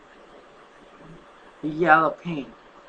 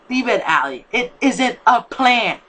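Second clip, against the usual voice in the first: louder, higher angry order, slow at the end; 7 semitones higher, 7 dB louder, slower than usual. Acted. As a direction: cut her off in anger. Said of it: "saying in anger".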